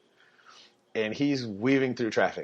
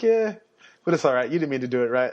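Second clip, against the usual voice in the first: much higher, louder cheery send-off; cheery cop; 4 semitones higher, 4 dB louder, faster than usual. Retold or imitated. Officer lets the stop-sign runner go, high and cheery. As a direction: wave him off kindly.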